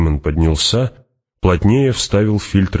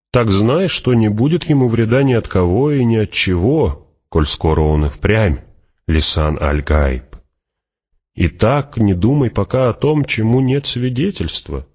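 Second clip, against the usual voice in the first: high, swinging declaration; Fremen warrior, assured; 6 semitones higher than usual. Acted. Fremen assures Hawat no harm will come, high and confident. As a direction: assure him in a lifted, lilting voice.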